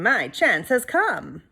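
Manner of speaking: slow, scheming inner voice; a hint of sly glee; sly thought. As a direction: savour the secret plan. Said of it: "inside he was thinking".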